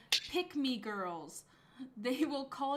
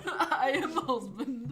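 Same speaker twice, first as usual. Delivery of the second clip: put-on Russian accent; 2 semitones higher, 7 dB louder, slower than usual. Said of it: "it was my attempt".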